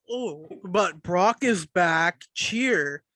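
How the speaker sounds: slow, sarcastic mock enthusiasm; mock cheerleading. Mocking fans who hype Brock's return, slow sarcastic cheer. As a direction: drag it out like you're mocking the hype. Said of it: "and you're like".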